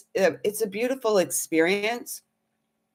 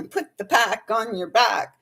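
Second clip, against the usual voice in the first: laughing repeat; 4 semitones higher than usual. Retold or imitated.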